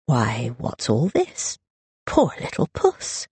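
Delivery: lazy, taunting sing-song; mocking brother. A narrator's reading. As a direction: croon mock sympathy at a sulky sister. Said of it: "called a voice from the next room".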